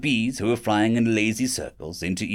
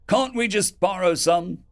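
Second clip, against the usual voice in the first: yelling back; 7 semitones higher than usual. Acted. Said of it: "someone yelled back".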